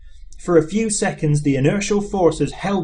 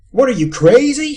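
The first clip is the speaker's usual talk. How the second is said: higher, louder outburst; incredulous shout; 8 semitones higher, 7 dB louder than usual. A narrator's reading. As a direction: yell it in disbelief. Zaphod in disbelief.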